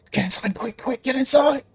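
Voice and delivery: high, pressing urge to get inside; half-orc hurrying the party inside; urgent hurry. Acted. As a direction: rush them through the door. Half-orc urges them in.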